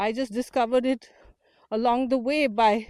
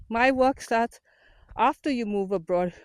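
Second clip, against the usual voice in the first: panting while walking uphill; breathy, winded from the climb; out of breath. Real, not acted. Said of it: "I'm sorry if I'm panting".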